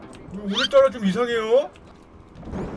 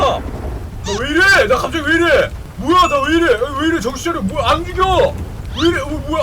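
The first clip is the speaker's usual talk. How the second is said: high, loud panicked questions; alarmed yelling; 8 semitones higher, 7 dB louder than usual. Real, not acted. Gamer panicking as his character loses control. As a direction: freak out as the car goes wild.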